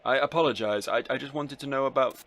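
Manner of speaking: lightly voiced nervous underling, loud and hurried; flustered underling. Underling apologizing to the boss, hurried and flustered. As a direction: stammer out a hasty apology.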